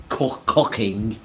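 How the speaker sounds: COOKING stumbled, drawn out slowly; stumbled word. Real, not acted. Friend fumbles telling the cook he's good at cooking, stumbled. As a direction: trip on "Co-, cooking" and stretch it. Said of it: "You're really good at that one".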